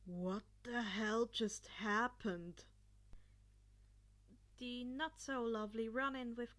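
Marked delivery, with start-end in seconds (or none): 0.1-2.7 slow, louder baffled question; stunned disbelief. Acted. Bully left baffled after Izuku walks off, slow and stunned. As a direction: let it hang in disbelief.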